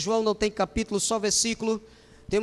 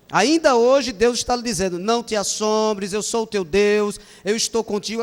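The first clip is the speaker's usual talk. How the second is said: forceful preaching; 7 dB louder than usual. Real, not acted. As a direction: proclaim it to the congregation. Preaching climax, louder. (pregação forte e alta, devagar)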